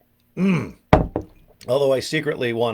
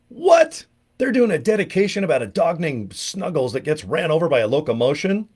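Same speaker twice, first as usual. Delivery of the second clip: incredulous; 7 semitones higher, 3 dB louder than usual. Retold or imitated. Retold disbelief at radio.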